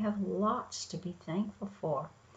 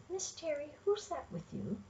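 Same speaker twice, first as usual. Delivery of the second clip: lightly voiced listener, softer and a bit higher; listener's question; 5 semitones higher, 6 dB quieter than usual. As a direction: voice a young listener's question, quietly. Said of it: "you might say".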